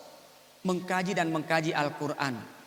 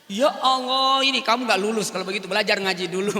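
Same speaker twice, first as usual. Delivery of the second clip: exasperated scolding; 6 dB louder, faster than usual. Retold or imitated. Menegur mahasiswa yang salah baca.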